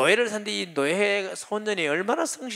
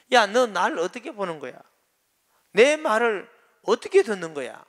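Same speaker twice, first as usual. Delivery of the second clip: a touch of retold exasperation, slightly higher; annoyed master; 5 semitones higher, 4 dB louder than usual. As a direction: scold him, half in disbelief. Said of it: "이제 화가 좀 나는 거야".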